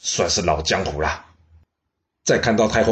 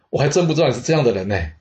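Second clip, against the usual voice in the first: amused laugh; 6 semitones higher, faster than usual. Acted. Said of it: "她大笑说".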